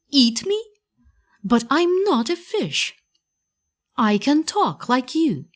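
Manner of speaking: a scared puppet arguing for his life; frightened puppet protest. A narrator's reading. Pinocchio begging the fisherman not to eat him, high and alarmed.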